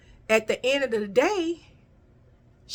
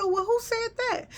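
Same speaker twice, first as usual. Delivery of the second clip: mock indignant; 14 semitones higher than usual. Retold confronting supervisor.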